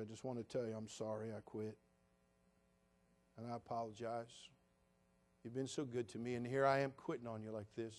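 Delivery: soft, low, repentant prayer; hushed sorry prayer to the Lord; humble prayer. Retold or imitated. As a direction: quietly confess to God. Humble apology prayer retold.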